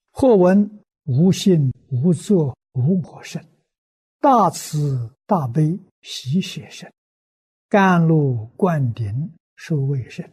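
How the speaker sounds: measured scripture recitation in short phrases with pauses; sutra recitation. Acted. Recites a Buddhist sutra throughout. (庄重诵经，逐句停顿)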